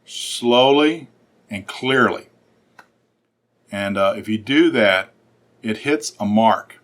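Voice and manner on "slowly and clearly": drawn out. Shown as a demonstration. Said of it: "You want to read it loud".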